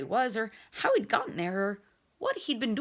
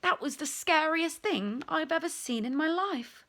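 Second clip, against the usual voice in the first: excited; 8 semitones higher, 4 dB louder than usual. Real, not acted.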